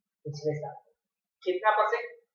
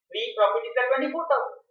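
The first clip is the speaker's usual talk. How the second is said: slow emphatic statement; 7 semitones higher, much slower than usual. Shown as a demonstration. Teacher states the key result.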